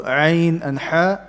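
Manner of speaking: ayn and ha drawn out slowly from the middle of the throat; slow throat letters. Shown as a demonstration. Teacher slowly demonstrating throat letters to students. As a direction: stretch each letter slowly. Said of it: "in the middle, you have two".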